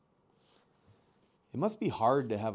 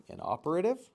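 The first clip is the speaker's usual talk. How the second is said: put-on puzzled young gosling; 6 semitones higher, 3 dB louder, faster than usual. A narrator's reading.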